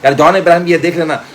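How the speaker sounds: put-on high, loud girly chatter; Rachna's voice. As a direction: playfully voice the excited girlfriend. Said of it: "अब रचना बोली". (ऊँची, जोर की लड़की की आवाज़ में)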